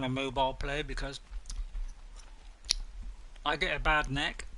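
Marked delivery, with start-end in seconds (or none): 3.5-4.4 talking through a mouthful of sweet; chewing while talking. Real, not acted. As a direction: chew a sweet as you speak. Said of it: "I'm chewing a sweet, that's why I'm making a bit of a noise".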